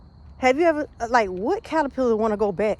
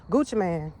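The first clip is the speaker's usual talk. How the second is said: slightly winded while walking; out of breath. Real, not acted. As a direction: talk a bit short of breath. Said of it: "I'm a little out of breath".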